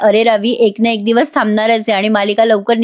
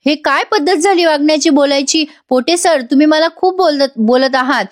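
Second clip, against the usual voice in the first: higher, lightly acted indignation; a touch of hurt anger, voice raised in pitch; indignant protest; 4 semitones higher than usual. Aarav objects to Pote sir's scolding, mildly indignant.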